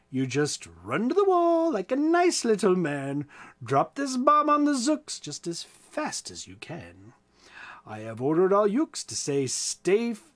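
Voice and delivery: lively rhyming read-aloud; story narration. A narrator's reading. Storyteller reading the butter story to listeners, lively. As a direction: tell the rhyme with a bouncing beat.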